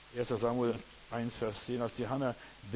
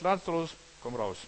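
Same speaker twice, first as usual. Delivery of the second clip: calling out; 4 semitones higher than usual. Acted. Calling Lazarus from tomb.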